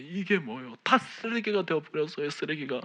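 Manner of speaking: retold indignant prayer, voice climbing; reenacted angry complaint. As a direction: complain bitterly, demanding an answer. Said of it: "원망하며 따지듯이".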